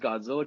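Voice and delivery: Godzilla said as "Good-zilla"; family's mispronunciation. Retold or imitated. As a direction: say Godzilla with "good", like two O's. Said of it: "they would pronounce it as".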